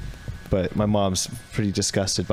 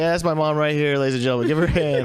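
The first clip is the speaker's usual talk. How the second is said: mock host introducing; emcee announcer voice; 5 semitones higher than usual. Announcing mom to crowd.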